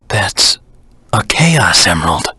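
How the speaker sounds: breathy hushed discovery; hushed, unvoiced awe; awed whisper.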